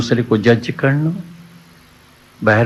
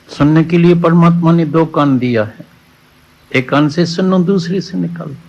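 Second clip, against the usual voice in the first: higher and louder, pressing the point home; raised preaching voice; 6 semitones higher, 4 dB louder than usual. Acted. Preacher urges the congregation to stop listening to gossip, loud and high. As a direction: preach it out to the whole hall.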